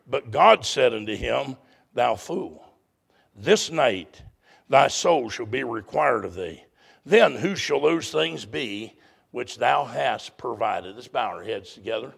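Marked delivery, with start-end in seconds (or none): 0.1-11.0 solemn scripture reading. Real, not acted.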